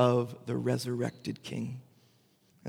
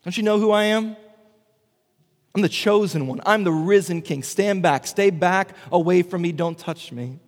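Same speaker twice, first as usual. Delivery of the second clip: haughty triumphant king; 3 semitones higher, 3 dB louder than usual. Retold or imitated. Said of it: "triumphant king who says".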